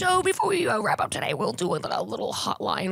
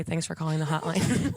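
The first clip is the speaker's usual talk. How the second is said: "Thanks for calling the hotline" said with a chuckle; laughing hotline greeting; 3 semitones lower than usual. Shown as a demonstration. Host showing her co-host how to answer, laughing. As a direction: read it through a laugh. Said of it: "You can say".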